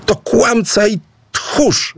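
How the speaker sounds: high, slow jeering yell; shriek. A narrator's reading. Aboe shouts at Idu across the field, jeering yell. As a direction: scream the insult out. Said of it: "wrzasnęła Aboe".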